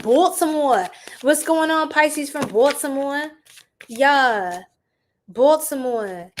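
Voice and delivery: playful put-on Baltimore accent, drawing out "Baltimore"; mock Baltimore accent. Streamer greets a Pisces viewer from Baltimore, mock Baltimore accent. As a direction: lean into a joking Baltimore accent. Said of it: "I don't even think that's the accent".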